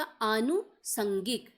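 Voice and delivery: आनुसंगिक drawn out slowly, syllable by syllable; slow careful pronunciation. Shown as a demonstration. Teacher giving the right answer, slow careful pronunciation. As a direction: stretch आनुसंगिक out for the class. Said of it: "तो right answer क्या हो जाएगा".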